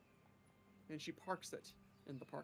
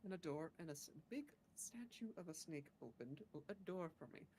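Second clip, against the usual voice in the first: halting adventurer character. Acted. Player recounts the day in character.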